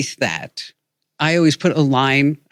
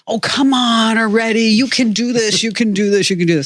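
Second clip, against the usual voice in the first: pleading with computer; 6 semitones higher than usual. Retold or imitated. Urging a slow computer on.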